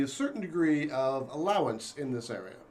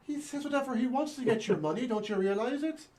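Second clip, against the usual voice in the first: bad stage Irish accent; 6 semitones higher than usual. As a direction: ham up an Irish lilt. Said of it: "do not do good, uh, Irish accents".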